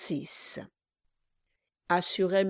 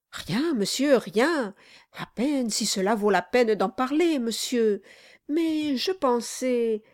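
timid obsequious lawyer; 4 semitones higher than usual. Acted. Brass hedging timidly.

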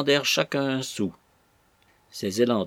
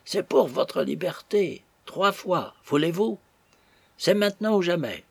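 high-pitched, imploring appeal; pleading; 7 semitones higher than usual. A narrator's reading. Captain's last appeal to the bridegroom to flee, pleading. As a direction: beg him, lifting the voice on each short phrase. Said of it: "dit le capitaine d'un ton suppliant".

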